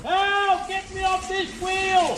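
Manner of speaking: high shouted cries; calling for help. Acted. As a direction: yell for rescue from the wheel. Stuck on water wheel.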